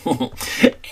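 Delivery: dismissive laugh. Acted. Scoffing at rival's stories.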